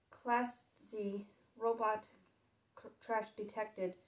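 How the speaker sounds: robot voice. Acted. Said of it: "said it in a metallic voice".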